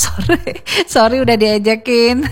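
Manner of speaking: giggly apology; laughing. Real, not acted.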